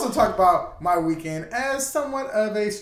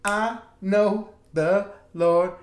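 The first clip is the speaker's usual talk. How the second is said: church testimony; 3 semitones higher, slower than usual. Pretend. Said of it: "sound like a church infomercial".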